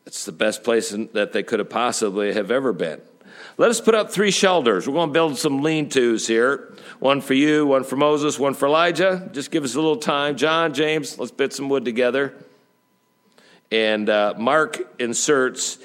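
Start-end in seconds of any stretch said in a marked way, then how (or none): 3.6-12.3 higher-pitched, eager blurt. Acted. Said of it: "And so he blurts out".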